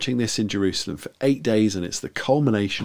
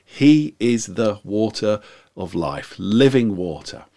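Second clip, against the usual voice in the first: drawn out, louder proclamation of living water; slow proclaiming call; 4 dB louder, slower than usual. Retold or imitated. Preacher voicing Jesus to the feast crowd, slow, mild proclaiming call. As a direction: call out each phrase slowly, like a mild shout to the crowd. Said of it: "he says in a very loud voice".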